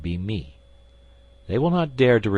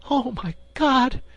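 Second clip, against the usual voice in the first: high, loud cry of terror; a sudden frightened outcry; terrified cry; 4 dB louder than usual. Acted. Queen hears the duke foretell his death, terrified cry. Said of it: "with an accent of terror".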